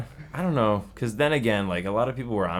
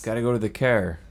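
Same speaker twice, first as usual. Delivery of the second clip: mock East Coast Canadian, car as care; faster than usual. Shown as a demonstration. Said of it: "it's not a car, it's a care".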